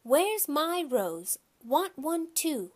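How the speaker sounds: put-on high, drawn-out demand of a little girl; hollering. A narrator's reading. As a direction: holler it slowly like an indignant small child. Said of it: "But Jenny hollered".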